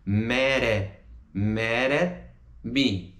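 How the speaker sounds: mad at with the t tapped like a Brazilian r; flapped t. Shown as a demonstration. Teacher demonstrating the tapped t in mad at. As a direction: link mad at as mad-ar. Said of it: "a pronúncia fica mad at, com som de R brasileiro".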